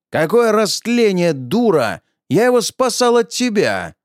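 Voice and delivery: angry shout back. Acted.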